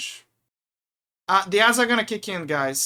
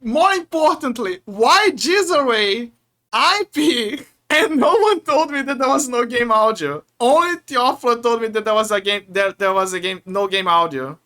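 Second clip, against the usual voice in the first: raised-pitch, indignant outburst; real exasperation; 3 semitones higher, 3 dB louder than usual. Real, not acted. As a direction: complain loudly in real frustration. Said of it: "I'm so mad".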